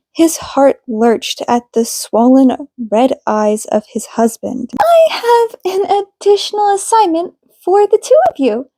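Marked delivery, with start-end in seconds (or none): 4.8-8.7 higher, measured counselor voice; calm therapist. A narrator's reading. Counselor Minami addressing the couple in session, composed and higher. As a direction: speak like a gentle, professional marriage counselor.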